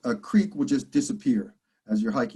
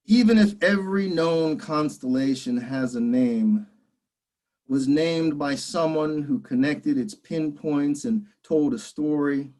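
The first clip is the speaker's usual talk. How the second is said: measured poem recital with pauses between lines; deliberate phrasing, each line set apart; poetry reading; 2 semitones higher, slower than usual. Acted. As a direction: read your poem to an audience, line by line. Reads own poem aloud.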